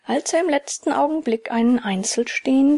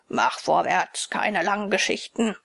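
robber voice; 3 semitones lower than usual. Acted. Robber threatens the puppet.

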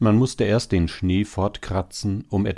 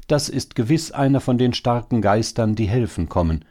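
higher start, settling toward the end; jubilant; 6 semitones higher, 3 dB louder than usual. A narrator's reading. Hare hailing one of the helping strong spirits, jubilant. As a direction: announce the rescue with glad conviction. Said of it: "jubelte der Hase".

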